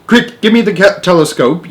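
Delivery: high, loud hurried call; urgent yell. Acted. Shuckworth demands the telescope, yelling urgently. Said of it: "yelled Shuckworth".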